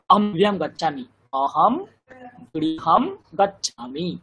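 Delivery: অহম গৃহম গচ্ছামি recited very slowly, word by word; slow careful recitation. Shown as a demonstration. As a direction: stretch out গৃহম গচ্ছামি with a falling tune. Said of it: "এই পদগুলোরও তো শনাক্তকরণ করা প্রয়োজন".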